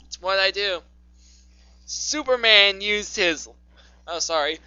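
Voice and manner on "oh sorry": ordinary talk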